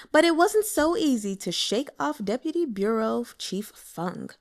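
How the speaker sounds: ordinary delivery, nothing marked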